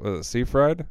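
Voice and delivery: Seyfried as SEE-fried, rising in question; unsure "SEE-fried?" for Seyfried; guessing pronunciation. Real, not acted. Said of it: "I don't know how to say it".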